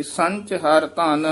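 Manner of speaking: slight halt after ਧਨ; brief halt after phrase. Shown as a demonstration. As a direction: read to ਧਨ and briefly hold. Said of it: "ਇੱਥੇ ਠਮਕ ਹੈ".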